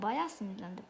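quietly seething; muttered annoyance. Real, not acted. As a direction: mutter your anger to yourself.

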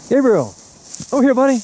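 bright sing-song call to a distant cat. Real, not acted. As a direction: call him over to you. Calling the cheetah over.

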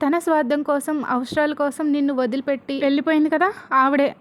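a father yelling out the truth at his daughter; mock yell at the daughter about her mother; shouting. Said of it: "Hegde ఇలా అరుస్తాడు".

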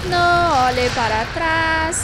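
slow dramatic warning. Pretend. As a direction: intone it like a creepy omen. (aviso sombrio e arrastado)

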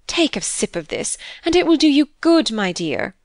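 motherly coaxing with a high lift in the middle; sympathetic, swooping reassurance; touched. A narrator's reading. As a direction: coax kindly, as if moved. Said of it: "quite touched by the plaintive words".

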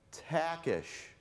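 "Takish" said slowly as TACK-ish, ending in "ish"; correct pronunciation. Shown as a demonstration. Speaker teaching the audience his surname, "Takish" ending in a clear "ish". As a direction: say "Takish" carefully, second syllable "ish". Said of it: "and it's pronounced".

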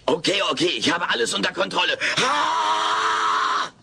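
losing control with a cry; panicky. Real, not acted. Alf panics on the phone with Kate, then cries out. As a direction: fall apart mid-sentence.

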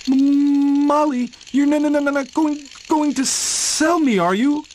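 high stammering frightened tractor; trembling voice. Acted. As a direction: quaver it, scared of being sold. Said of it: "he asked in a trembling voice".

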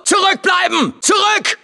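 high, urgent order to keep back; warning shout. Acted. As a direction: shout them back from the danger. Warning others before a blast.

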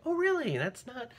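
high-pitched retold surprise; surprised disbelief. Host retelling learning the actor doesn't play, surprised. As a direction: go up high, taken aback.

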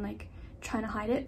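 slight lisp; talking with a lisp. Real, not acted. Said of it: "finding myself talking in a lisp".

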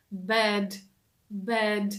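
bed with lips spread sideways; lips stretched. Shown as a demonstration. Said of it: "розтягуємо наші губи в сторону". (bed з губами, розтягнутими в сторони)

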